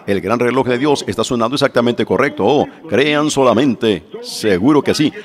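normal talking voice

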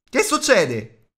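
high, loud call; grido. A narrator's reading. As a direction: shout the question across the dark. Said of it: "gli gridò Bilbo". (domanda gridata, acuta e forte)

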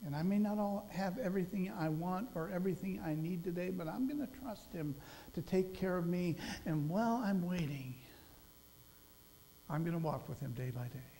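stille, oprechte belofte; quiet sincere pledge. Pretend. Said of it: "really say this morning".

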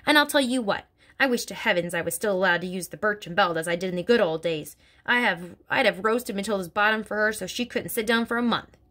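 lightly voiced stern headmistress; a hint of a bullying headmistress, scornful; Trunchbull voice. Headmistress sneering about little girls to Miss Honey, scornful.

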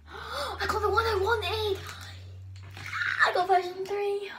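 high, loud near-crying happiness, slow; real overjoyed crying; tearful joy. Real, not acted. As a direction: cry out with delight at the result. Gets the version she wanted.

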